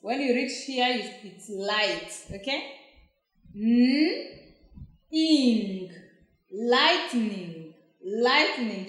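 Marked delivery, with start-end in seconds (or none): 3.6-8.9 phonics blending, sound by sound; teacher sounding out a word; sounding out slowly. Shown as a demonstration. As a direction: sound each part out then blend. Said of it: "Just go slowly".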